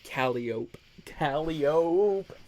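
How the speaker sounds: Calliope as KAL-ee-ope; Calliope without final ee. Shown as a demonstration. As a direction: end Calliope like "rope", three syllables. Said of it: "back to".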